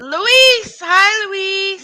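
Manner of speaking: high bright hello; cheery greeting. Real, not acted. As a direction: call out the name happily. Greeting chat viewers.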